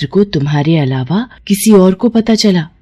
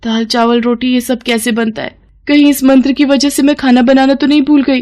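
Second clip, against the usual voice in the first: worried bewilderment; 5 semitones higher than usual. Acted. Spell fails, she panics over forgetting.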